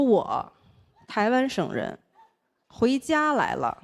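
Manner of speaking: slow deadpan. Retold or imitated. Deadpan reply to cabbie.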